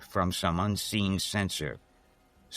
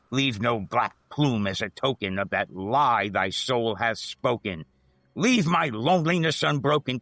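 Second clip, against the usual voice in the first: raised banishing voice; 4 semitones higher than usual. Acted. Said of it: "I shrieked".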